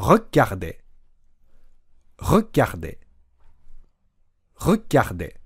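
Regarder as a short Re, a stopped beat, then garde; tat-takata rhythm. Shown as a demonstration. Teacher drilling the rhythm for learners, stopped beat after first syllable. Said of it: "というリズムでまずは練習".

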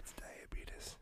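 "diabetes" whispered as "die-a-bee-tus"; whispered redneck diabetes. Shown as a demonstration. Teasing his co-host, whispers "diabetes" as "die-a-bee-tus". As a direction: hush out "diabetes" with the folksy ending "tus". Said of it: "you sound like a redneck".

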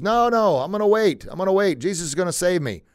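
high-pitched imitation of a stubborn man; insistent refusal. Stranded man refuses helicopter rescue.

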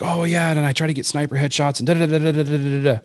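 mimicking an eager young gamer; imitated excited kid. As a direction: rattle it off like a thrilled kid. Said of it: "Your kid just got more excited".

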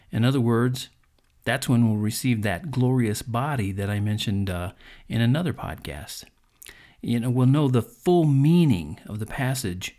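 ordinary talk

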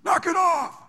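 very high, loud yell; hot-headed disciple yelling at a beggar; angry shout. Retold or imitated. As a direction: snap it like a hot-headed fisherman. Peter scolding the crowd's beggar.

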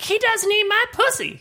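high-pitched whiny complaint; mock the tipsy girlfriend; high mock drunk girl voice; drunk girl whine. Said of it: "would be like".

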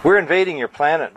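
eager announcement. Acted. Young bird Kakar volunteers the news, fast and eager. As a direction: blurt it out proudly. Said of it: "volunteered Kakar".

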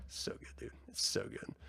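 soft breathy whispered praise. Real, not acted. Hushed rave to viewers about the series, whispered. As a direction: whisper it like a secret you can't keep in.

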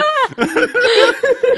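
high helpless laugh at her own blunder; burst of laughter. Real, not acted. Laughing at forgetting the handbrake, high laughter. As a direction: crack up, pitch flying up.

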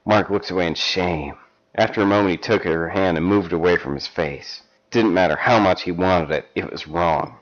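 measured storybook reading; story narration. Acted. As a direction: read it like a steamy paperback. Reads erotic fan fiction aloud.

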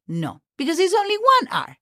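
ordinary talk

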